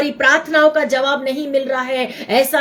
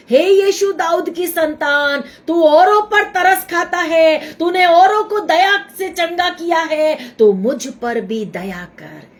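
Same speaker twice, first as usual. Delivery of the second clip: mock cry sinking to a plea; 2 semitones higher than usual. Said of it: "उसने चिल्लाया".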